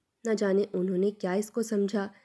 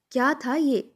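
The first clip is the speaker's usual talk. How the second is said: higher and louder indignant repeat; angrier repeat; 5 semitones higher, 3 dB louder than usual. A narrator's reading. Aunt repeats her complaint about the halwa, louder and angrier. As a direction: throw the question back harder. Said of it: "برا سا منہ بنا کر کہنے لگیں".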